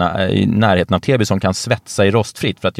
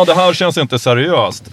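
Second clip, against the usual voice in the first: higher, slow, exaggerated doubt; mock sceptical comment; 6 semitones higher than usual. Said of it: "De bara". (spelat skeptisk, högre och långsamt)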